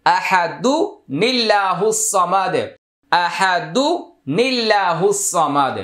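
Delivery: আহাদু with a short u, flowing into নিল্লাহু সামাদ, slow; slow tajweed linking, আহাদু-নিল্লাহু; joined recitation. Shown as a demonstration. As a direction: link আহাদু into নিল্লাহু without a break. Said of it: "আহাদু একটা পেশ হবে".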